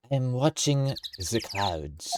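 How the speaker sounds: a second try at a character voice; put-on character voice. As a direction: stretch the words out in a put-on voice. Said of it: "That's a bit better".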